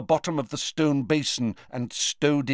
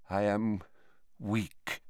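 soft, weak, lower voice; faint and weak; 3 semitones lower, 8 dB quieter, slower than usual. A narrator's reading. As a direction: let the strength drain away. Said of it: "how faint his voice was".

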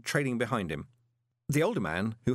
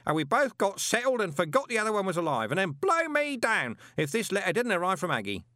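booming; 10 semitones higher than usual. A narrator's reading. Parker booming his life story at Moist. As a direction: boom it like nobody's listening. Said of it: "grasp of volume control".

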